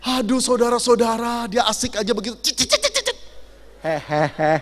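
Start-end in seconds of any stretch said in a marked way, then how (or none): 3.8-4.6 lower, easygoing giggle of the oblivious driver; carefree chuckle. Retold or imitated. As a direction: laugh like you noticed nothing.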